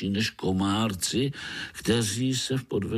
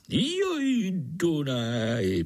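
wistful sigh; 7 semitones higher, much slower than usual. Acted. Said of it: "posteskl si".

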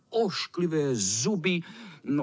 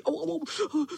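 mocking echo; 13 semitones higher than usual.

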